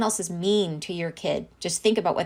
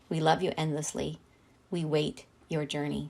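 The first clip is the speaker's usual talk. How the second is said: solemn reading. Acted. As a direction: read it like a prayer, letting it fade. Reads channeled message aloud.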